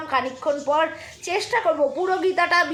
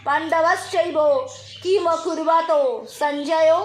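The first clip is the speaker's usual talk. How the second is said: chanting verses before the deity; Gita recitation. Acted. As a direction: recite it like a devotional reading.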